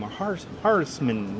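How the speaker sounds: "Harsman" tried slowly, breaking off after "Hars"; unsure name pronunciation. Real, not acted. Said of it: "I know I'm mispronouncing your last name".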